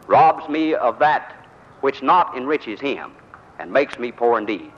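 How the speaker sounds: slow, measured oratorical recitation; recited Shakespeare. Acted. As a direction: declaim the lines slowly, savouring each phrase.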